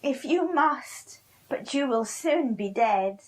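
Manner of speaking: grim witch. Acted. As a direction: warn him darkly as the witch. Witch answering grimly.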